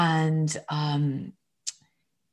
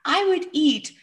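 put-on the same child's line, much higher, in a whisper, holding back a laugh; whispered giggly child; 11 semitones higher than usual. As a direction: breathe it out as a whisper, almost laughing. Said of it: "smiling and almost laughing".

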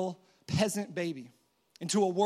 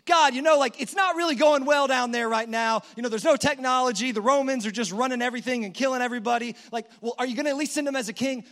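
anxious angel pleading louder and higher, rushing; worried angel; 3 semitones higher, 6 dB louder than usual. Acted. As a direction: plead with God, alarmed and fast. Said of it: "all the angels are like".

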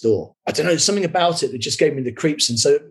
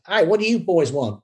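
lightly imitated Australian accent, pitched higher; 5 semitones higher than usual. Woman in a dressing gown greeting two visitors, lightly mimicked Australian accent. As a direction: put on a touch of comic Australian. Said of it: "in a ridiculous Australian accent".

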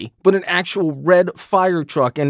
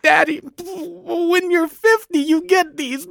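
very high, slow mock kid voice, bursting with laughter; imitating child cracking up; 13 semitones higher, slower than usual. Nine-year-old son handing Dad the envelope, mock cracking up in a high voice. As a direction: play a little boy barely holding in his giggles. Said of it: "he's just cracking up".

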